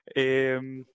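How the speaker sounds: restarting through laughter; laughing. Real, not acted. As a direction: laugh it off and carry on. Laughing after the camera fall.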